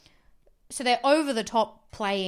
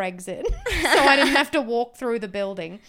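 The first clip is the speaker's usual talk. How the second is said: talking through laughter; amused, laugh breaking into the words; 2 semitones higher, 5 dB louder than usual. Real, not acted. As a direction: laugh helplessly while confessing. Laughing while telling embarrassing escape.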